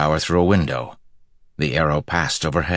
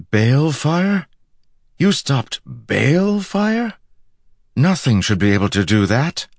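high, rising incredulous questions; amazed; 10 semitones higher, 4 dB louder than usual. A narrator's reading. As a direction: react in sheer disbelief. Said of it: "Egwene smelled amazed".

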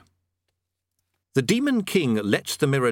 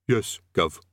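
faint voice down a tube; distant voice; 3 semitones lower than usual. A narrator's reading. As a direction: call up from far away. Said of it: "The voice faded, came back".

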